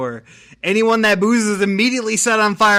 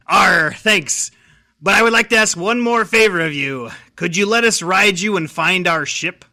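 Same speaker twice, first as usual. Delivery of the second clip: pirate voice; 4 dB louder than usual. Acted. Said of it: "I could only do one pirate voice".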